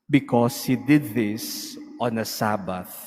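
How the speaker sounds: ordinary talk, nothing marked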